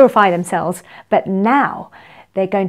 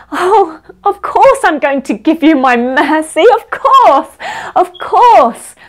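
high, loud, gushing generosity; effusive forgiveness; 6 semitones higher, 5 dB louder than usual. Acted. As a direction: give everything away with joyful insistence. Forgiving Lord gushes in the story.

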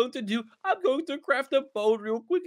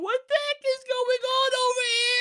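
shocked shout; 10 semitones higher than usual. Real, not acted. Sees monster.

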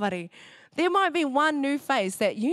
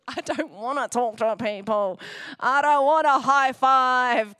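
mock introvert whine; 2 semitones higher, 5 dB louder, slower than usual. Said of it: "Introverts are like".

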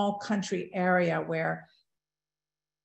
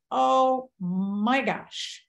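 drawn-out, dismayed "oh my gosh"; slow, higher exclamation of dread; 4 semitones higher, much slower than usual. Retold or imitated. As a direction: stretch it out in dismay. Dreading return to injured body.

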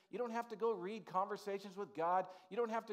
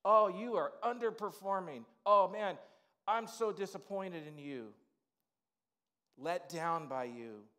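louder, scolding coach; a coach chewing out a player, louder; disappointed coach; 5 dB louder than usual. Retold or imitated. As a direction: bark the letdown at the player. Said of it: "a teacher or a coach".

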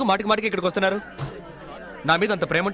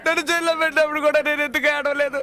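crying; 5 semitones higher than usual. Acted. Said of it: "ఎందుకు ఏడుస్తున్నావు?".

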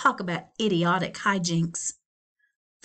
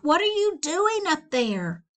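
mild shout; 7 semitones higher than usual. Acted. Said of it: "her mother shouted".

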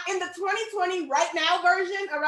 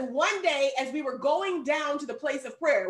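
slow, measured Bible reading; scripture reading; slower than usual. A narrator's reading. Preacher reads scripture to the congregation, slow and measured. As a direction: read the verse out deliberately. So it says.

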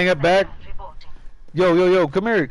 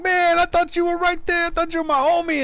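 retold complaint; 12 semitones higher than usual. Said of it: "I was like".

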